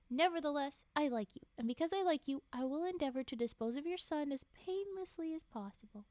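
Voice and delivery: steady read-aloud storytelling voice; measured storybook reading; story narration. A narrator's reading. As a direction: read the tale to a listener.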